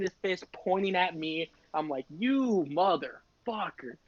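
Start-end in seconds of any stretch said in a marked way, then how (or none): 2.2-4.0 slow, drawn-out resentment; retold seething curse. To himself about the snitch, slow and resentful. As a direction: stretch the insult out word by word.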